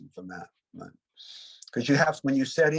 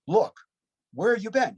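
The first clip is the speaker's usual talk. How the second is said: retold scream; 10 semitones higher than usual. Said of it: "screaming at me".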